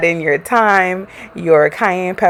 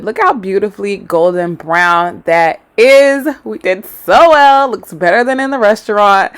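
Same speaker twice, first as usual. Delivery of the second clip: excited; 6 dB louder than usual. Real, not acted. Proud of the golden fish.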